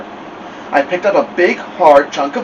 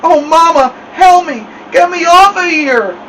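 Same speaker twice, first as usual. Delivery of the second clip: mumbled cry; 6 dB louder than usual. A narrator's reading. Stuck boy begs his brother to fetch Mama, mumbled cry. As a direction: yell with your lips stuck fast. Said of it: "sounded like he had something in his mouth".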